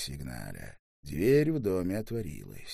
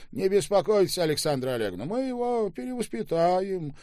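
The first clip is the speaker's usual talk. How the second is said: high, louder joking reassurance; playful high teasing; 12 semitones higher, 4 dB louder than usual. Acted. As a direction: tease the son playfully, pitched high. Staube jokes to mother. (шутливо, высоко и громко)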